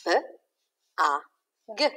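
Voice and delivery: segment "B, A, G" sound by sound; sounding out letters. Shown as a demonstration. Teacher with children, sounding out "B, A, G" together. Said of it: "Let's sound out bug together".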